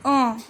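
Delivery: short nasal un; French un. Shown as a demonstration. Teacher modelling French un. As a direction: say un as a clipped nasal vowel. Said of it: "वन को हम बोलते हैं".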